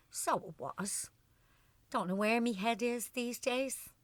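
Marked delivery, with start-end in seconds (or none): 0.1-1.1 1 whispered aside. Acted. Wife embarrassed, trailing off.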